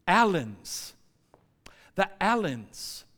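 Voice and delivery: put-on French-accented roll call; put-on French clerk announcing passengers; French clerk calling names. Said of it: "she's calling out these names".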